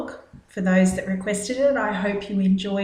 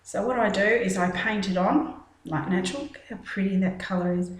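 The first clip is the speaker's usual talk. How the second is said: ventriloquist voice, mouth half closed; lips barely moving. Real, not acted. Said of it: "I sound like a ventriloquist".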